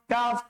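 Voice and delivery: কাফ as a simple light k with long vowel; light, held কাফ; unforced kaf. Shown as a demonstration. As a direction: say কাফ easily, no pressure in the throat. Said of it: "কোনো জোর জবরদস্তি নাই".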